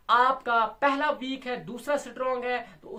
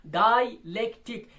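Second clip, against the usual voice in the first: syllable by syllable; 4 dB louder, slower than usual. Shown as a demonstration. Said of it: "लेकिन ये डायलेक्टिक है".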